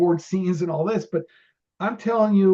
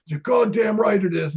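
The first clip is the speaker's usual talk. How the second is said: higher, louder mock-angry outburst; Rodney Dangerfield; 5 semitones higher, 3 dB louder than usual. Star answering an extra about wasted shooting, mock angry shout. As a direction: imitate a pissed-off comedian agreeing. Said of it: "And he was all pissed off".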